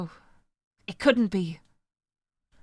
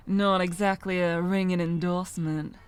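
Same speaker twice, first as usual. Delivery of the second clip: put-on American accent; 4 semitones lower than usual. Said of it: "I can't do an American accent".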